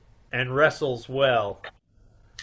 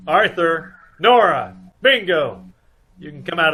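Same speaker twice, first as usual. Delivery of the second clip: calling out; 3 semitones higher, 6 dB louder than usual. Acted. Nick calling others out.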